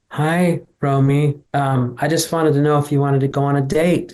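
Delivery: lightly voiced shy nerd asking a girl out; a mild awkward, timid ask for a date; nerdy suitor voice. Guest imitating Alan Cumming's character asking Romy out, lightly nerdy. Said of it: "He says it like that".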